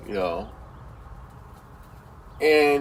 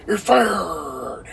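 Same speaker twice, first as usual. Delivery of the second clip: laughing taunt. Retold or imitated. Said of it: "make fun of this guy".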